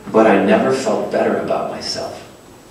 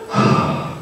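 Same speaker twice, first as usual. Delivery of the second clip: heavy sigh; 6 dB quieter than usual. Retold or imitated. Bracing before answering the friend.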